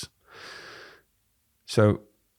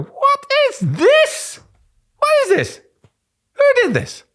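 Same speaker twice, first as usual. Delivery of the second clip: very high pitch; 6 dB louder than usual. Acted. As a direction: jump to the top of your voice in mock alarm at an email. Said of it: "that increase of register".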